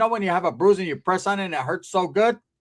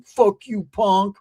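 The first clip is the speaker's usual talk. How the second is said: heckling crank caller; 3 semitones higher, 5 dB louder, much slower than usual. Retold or imitated. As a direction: hurl it like a phone troll. Prank callers' abuse acted out.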